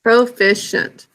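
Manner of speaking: slow dictation. Shown as a demonstration.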